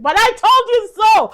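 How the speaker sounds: loud triumphant gloat; gleeful I told you so. Real, not acted. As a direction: crow it proudly. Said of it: "not to be a "I told you so" person".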